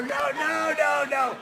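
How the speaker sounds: loud, high insistence; mock exasperated shouting; frantic shout. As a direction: yell at them to just look.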